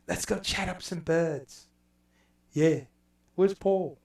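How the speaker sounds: hammed-up British accent, a mock pub lad; bad English accent. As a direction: play a cheeky Brit with a bad English accent. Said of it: "enough bad English accents".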